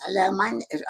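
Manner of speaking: high, lilting Scottish greeting; Scottish accent. Retold or imitated. Scottish lady introducing herself to séance researchers, attempted Scottish accent. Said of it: "this is Scottish".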